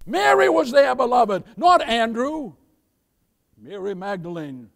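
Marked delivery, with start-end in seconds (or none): 0.1-2.5 loud emphatic preach; preaching shout. Real, not acted. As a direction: ramp it up, pound the words. Emphatic repeat, louder.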